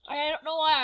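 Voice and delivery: slight accidental British accent. Real, not acted. Vlogger accidentally slipping while explaining the new look, British accent. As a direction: slip briefly into a British accent. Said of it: "I just had a British accent then".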